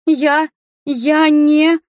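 trembling bleat of a caught liar; bleating stammer. A narrator's reading. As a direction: stammer like a cornered sheep. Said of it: "заблеяла Рика".

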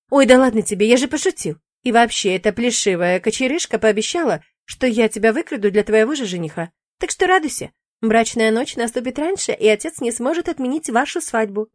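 breezy demon shrugging it off; lightly voiced demon. Demon brushing off the witch's fear, lightly voiced.

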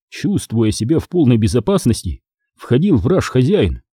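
usual speaking voice

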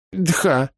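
breathy aspirated "Дха" for "да"; "Дха" said unsure with a puff of air. Acted. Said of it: "неуверенно кивнула Кукремилия".

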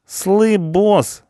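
very high, loud appeal; alarmed punk. A narrator's reading. Punk hiding behind the boss, alarmed appeal. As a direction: yelp to the boss for protection.

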